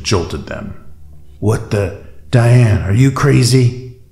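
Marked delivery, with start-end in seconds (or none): 1.4-4.0 shouted. A narrator's reading. Captain yelling at Diane after the blast, shocked shout. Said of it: "Hunter shouted".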